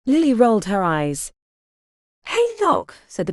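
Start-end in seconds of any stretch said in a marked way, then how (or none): 2.3-2.9 high, anxious call; nervous call. A narrator's reading. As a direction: call out with worry. Nervous patient calls after healer.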